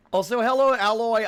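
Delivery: high, loud hello to a viewer; bright excited greeting. Real, not acted.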